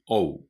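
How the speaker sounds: "オー" as o and u said quickly together; "オー" as an English "oh" diphthong; quick "ou" glide. Shown as a demonstration. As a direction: glide "オー" fast from o into u. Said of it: "早く言う。".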